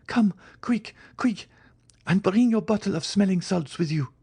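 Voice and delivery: very high, panicked urging; urgent summons. A narrator's reading. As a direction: hurry them along in a high, anxious voice. Urgent summons to stepmother upstairs.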